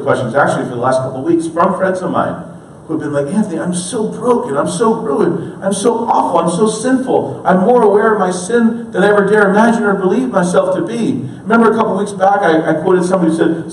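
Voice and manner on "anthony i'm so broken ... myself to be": higher-pitched imitation of a distraught confession; mildly dramatized lament of a friend; acted despair. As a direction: plead it, leaning on each "so".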